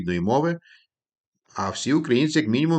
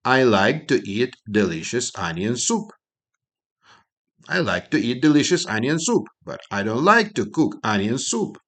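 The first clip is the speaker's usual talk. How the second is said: model sentence. Shown as a demonstration. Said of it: "І вийде щось таке".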